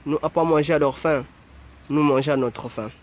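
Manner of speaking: lightly imitated African accent in broken French; mock African French. Mimicking how Africans supposedly talk, mock African French. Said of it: "Comme ils disent les Africains".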